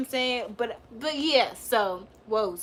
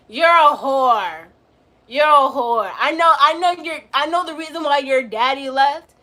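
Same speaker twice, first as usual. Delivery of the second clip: heated roast; 2 semitones higher, 6 dB louder than usual. Real, not acted. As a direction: spit out the insult. Roasting viewer B Steel.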